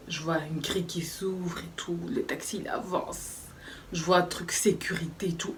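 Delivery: whispered, hushed telling; hushed suspense. Retold or imitated. Arriving by taxi, telling friends in a hushed whisper.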